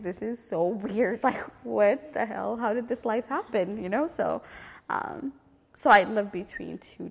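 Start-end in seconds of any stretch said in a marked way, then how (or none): 0.0-3.8 mock incredulity, laughing midway; retold disbelief. Recalling friends with designer purses, imitating her own amused disbelief. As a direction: act out baffled amazement, a bit louder. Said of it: "and I'm just like".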